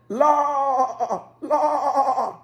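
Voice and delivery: high sing-song call with a laugh; light lilting herding call; shepherd's call. Acted. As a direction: gently call the sheep to lie down. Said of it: "when Jabal said".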